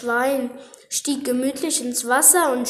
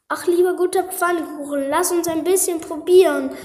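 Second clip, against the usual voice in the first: put-on high breathy begging child; pleading child; 5 semitones higher, 3 dB louder, faster than usual. Second child begs.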